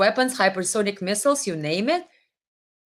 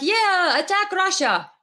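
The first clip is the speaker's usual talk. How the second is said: Zelensky; 7 semitones higher than usual. Retold or imitated. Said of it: "Zelensky like".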